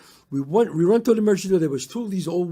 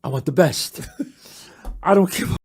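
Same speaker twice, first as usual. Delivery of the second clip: emphatic demand; 4 dB louder than usual. Retold or imitated. Demanding the best vacuum.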